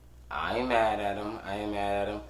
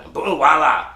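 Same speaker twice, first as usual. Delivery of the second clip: mock fanfare; 5 semitones higher, 11 dB louder than usual. Mock announcement.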